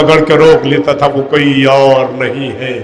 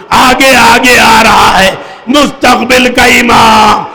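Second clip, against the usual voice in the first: preaching at full force; 7 semitones higher than usual. Acted. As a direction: wail the scene out to the mourners. Final climactic lament of sermon.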